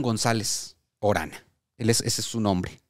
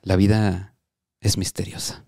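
mock inspirational; 3 semitones lower than usual. Mock inspirational dream message.

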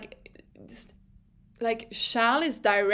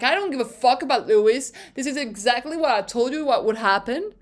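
fast, louder exasperated rant; Carlos losing it; 4 dB louder, faster than usual. Retold or imitated. Driver ranting at his team over the radio, fast angry outburst. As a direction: fire it off like a driver fed up on the radio. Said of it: "literally lost his mind and was like".

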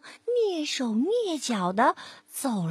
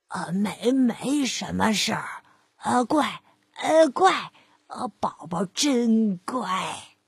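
wolf stammering, slowing to a nervous coax; stammering wolf, sweating, forced coaxing; 4 semitones lower, slower than usual. Acted. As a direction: sweat it out while soothing the piglet. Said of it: "满头大汗地说".

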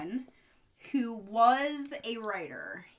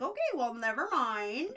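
abrupt brush-off; 4 semitones higher than usual. Retold or imitated. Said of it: "And she's like".

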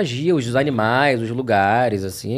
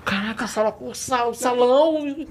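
higher, breathless awe at each place; goosebumped excitement; 5 semitones higher, 4 dB quieter, slower than usual. Retold or imitated. Voice actor reliving his thrill imagining Hogwarts, excited awe. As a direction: gush like a fan imagining the castle. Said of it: "Eu ficava arrepiado".

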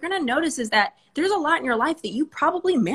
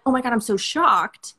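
playful fake shock, a bit louder; mock shocked gasp; 4 dB louder than usual. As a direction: act out being shocked. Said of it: "Not like".

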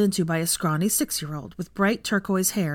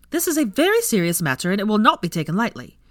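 mock official sternness; 4 semitones higher, 4 dB louder than usual.

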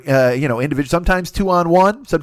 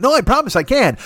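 much higher, eager protest; mock insistence; 10 semitones higher, 3 dB louder than usual. Improv hopeful assures doubting troupe mate, mock insistence. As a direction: insist like an overconfident amateur.

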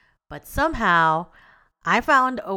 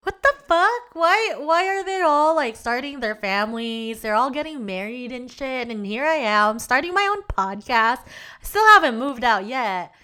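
panicked past self; 4 semitones higher than usual. Retold or imitated. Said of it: "I was like".

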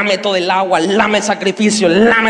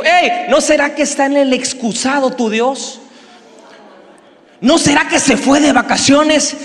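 mild mocking taunt; 3 semitones higher than usual. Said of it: "una versión de la Biblia dice que le dijo".

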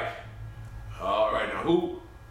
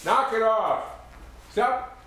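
raised, commanding voice; stern intervention; 5 semitones higher, slower than usual. Acted. Father telling two bickering women to knock it off, raised and stern. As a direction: break it up firmly, pitched high.

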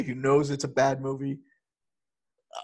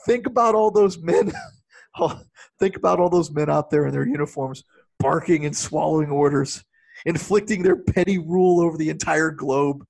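hammed-up ranting father; 4 dB louder than usual. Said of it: "he goes".

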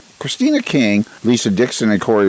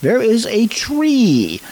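gentle giant voice; 9 semitones higher, much slower than usual. Retold or imitated. Continuing the Friendly Giant bit.

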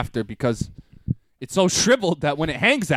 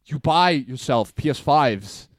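mock scolding girlfriend. Val yelling at him about holey underwear, mock scolding. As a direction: scold like she's fed up. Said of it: "She was like".

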